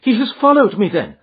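alarmed cry. A narrator's reading. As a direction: realise it with dread. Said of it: "she cried".

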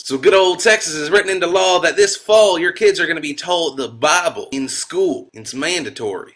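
mock Texan newsman; Texas accent. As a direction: read the news in a hammy Texas accent. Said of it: "I'm gonna stop doing this accent".

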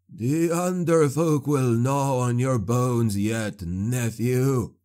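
caged sorcerer cursing his witch hunter nephew, slow and menacing; sorcerer's curse. Acted. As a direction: lay the curse on him slowly. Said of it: "Clabe swore".

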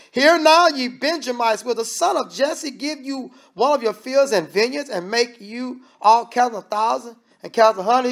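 preacher voicing Saul rallying his servants; a touch of King Saul. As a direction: lightly play the bitter king demanding loyalty.

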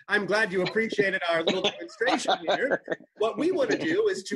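lightly acted sitcom ad man making a pitch; smooth over the mishap for a client; Darren Stevens. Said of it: "like Darren Stevens style from Bewitched".

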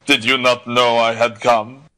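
blustering, put-out suitor; impatient. A narrator's reading. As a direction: impatiently question her. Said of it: "turned toward her impatiently".

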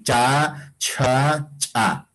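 three separate takes of "cha", contrasting simple, aspirated and glottal onsets; consonant contrast demo. Shown as a demonstration. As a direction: sound out "cha" three ways, plain, breath-puffed, popped. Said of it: "no hay ya como esto para decir".

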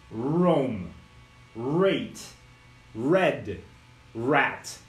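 "Roam", "Rate", "Red", "Rat" each with a low growled R; growled English R. Shown as a demonstration. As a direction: drill each word, growling the R. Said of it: "som de cachorro bravo".

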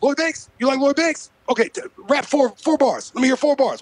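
incredulous mock rapper voice; a rapper. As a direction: imitate a rapper scoffing and demanding. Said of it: "the only impression I can fucking do".

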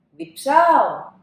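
loud, slow, drawn-out whine; whiny call. Acted. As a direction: stretch it out like a thirsty kid. Thirsty child calls dad. (παιδί που κλαψουρίζει δυνατά ότι διψάει)

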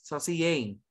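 "Saucier" as "so-si-YAY"; pronunciation demo. Shown as a demonstration. Teacher shows the class the joined word, "Saucier" as "so-si-yay".

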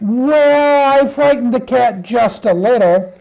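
a small puppy's reluctant admission; little puppy. Acted. Puppy confesses to mother about the cat, little puppy voice.

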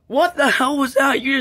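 high, loud startled protest, easing off. Acted. Just got jump scared, startled and loud. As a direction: demand to know what that was, rattled.

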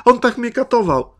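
high-pitched mock-pitiful apology; udawana zastraszona ofiara. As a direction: play the hunted, tearful victim for show. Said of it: "jakby ją goniło stado wilków". (udawany, wysoki głos zastraszonej ofiary)

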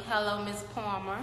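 put-on light New York accent on the name. Host greeting a viewer, New York accent. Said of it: "said Palmer with that New York accent".

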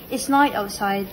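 mock British "noit" for NIGHT; lightly exaggerated British English; British accent. Shown as a demonstration. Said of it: "in English you say".

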